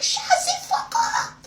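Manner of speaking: a hammed-up French woman shutting him down; mock French accent. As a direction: spit it out like an offended Parisian. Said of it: "I still had the accent".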